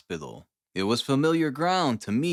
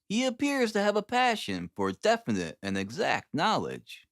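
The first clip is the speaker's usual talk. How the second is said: higher, lightly voiced friend, half amused; Stanford's voice; 4 semitones higher than usual. Stanford warning Watson about Holmes, higher and wry. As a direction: warn him about the odd fellow with a wry edge.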